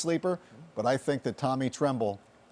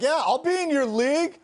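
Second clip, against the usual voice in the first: put-on Boston accent; 10 semitones higher, 3 dB louder than usual. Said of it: "Mine was on point on Saturday".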